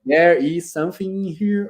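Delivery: slow imitation of a German speaker; German accent. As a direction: drag out the English with a German lilt. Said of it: "the German colleague's English". (imitando o alemão devagar)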